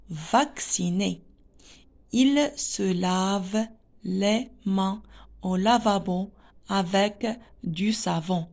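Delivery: slow, carefully spaced classroom reading; slow read-aloud. Shown as a demonstration. Teacher reads a French text to pupils, slow read-aloud. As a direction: read it out word by word for learners.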